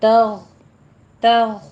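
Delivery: thin त, full ग in तग; tajweed demo. Shown as a demonstration. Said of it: "ता बारीक है, गैन को पुर करना है".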